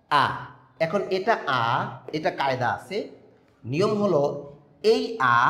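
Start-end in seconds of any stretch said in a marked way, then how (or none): 0.1-0.3 an open, held "আ"; vowel demo. Shown as a demonstration. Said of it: "এটা দেখেন". 4.9-5.4 higher, open-mouthed "আ"; open vowel demo. Shown as a demonstration. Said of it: "এখানে মুখটা খোলা থাকবে".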